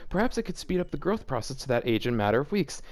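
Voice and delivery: reading the fanfic aloud, lightly voiced; a touch of deadpan story narration.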